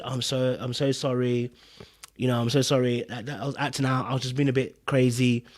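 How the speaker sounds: low, soft imitation of apologising; retold sheepish apology. Man retelling her call the next day, mock apologetic. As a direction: mimic a subdued apology, quiet and low.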